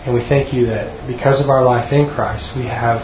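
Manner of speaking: measured, sincere prayer delivery; closing prayer. Real, not acted. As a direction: pray aloud for the group, pausing to find words.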